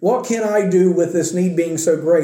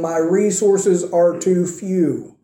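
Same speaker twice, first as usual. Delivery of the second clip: hushed admission of not being enough; much slower than usual. Acted. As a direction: say it like giving up. Voicing a believer's inadequacy.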